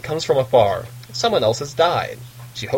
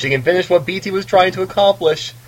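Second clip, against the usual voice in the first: higher and louder, building to a climax; dramatic build; 7 semitones higher, 4 dB louder than usual. Shown as a demonstration. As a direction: swell it like a movie trailer. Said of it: "can't you just hear the dramatic music just rising".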